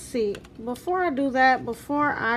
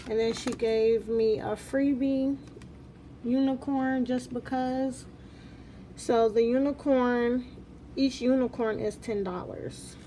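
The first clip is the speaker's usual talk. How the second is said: talking with braces. Real, not acted. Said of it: "if you notice that I'm talking a little funny".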